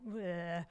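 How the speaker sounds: a half-hearted battle grunt; mock grunt. Preacher mimes merely holding a sword, mock grunt. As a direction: throw out a mock sword-swinging noise.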